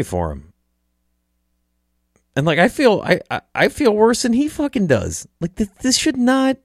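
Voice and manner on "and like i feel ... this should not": choked up and much higher, almost crying; fighting back tears, voice cracking high; voice breaking. Real, not acted. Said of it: "I'm trying not to cry".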